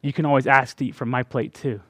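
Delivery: put-on God speaking tenderly to his children; gentle fatherly voice. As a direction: offer it tenderly like a loving father. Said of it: "hearing the Father say".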